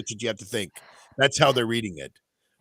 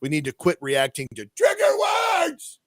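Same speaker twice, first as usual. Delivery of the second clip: mocking reread; 6 semitones higher than usual. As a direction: read it back in disbelief. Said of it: "hold on".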